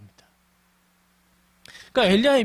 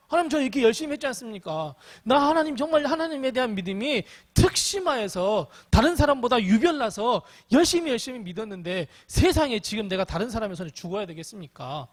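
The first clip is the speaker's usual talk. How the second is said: acted defiant protest; 3 semitones higher than usual. Preacher acts a worn-out believer challenging God, mildly defiant. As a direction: plead your record in mock confrontation. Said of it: "하나님께 맞짱 뜨는 거예요".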